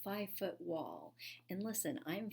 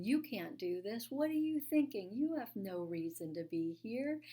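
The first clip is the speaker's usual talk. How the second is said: mock panic from the voice in her head; fearful inner voice; 2 semitones higher, 3 dB louder than usual. On the wall, her fearful inner voice doubting herself, alarmed. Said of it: "I can hear that fear in my voice".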